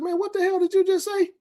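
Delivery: high, heated confrontation; retold furious challenge. Confronting the boy outside, retold angry demand. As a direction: get in his face, demanding. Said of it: "I was livid".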